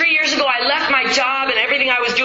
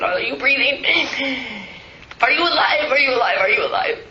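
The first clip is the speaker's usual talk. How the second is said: rising desperate cry of are you alive; panicked questions over the father's body; frantic pleading; 3 semitones higher than usual. Retold or imitated. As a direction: call out in panic.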